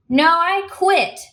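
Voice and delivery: high, drawn-out defiant yell. A narrator's reading. Waitress interrupting the manager to quit, yelling. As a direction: cut in with a heated, stretched-out outburst. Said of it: "she yelled".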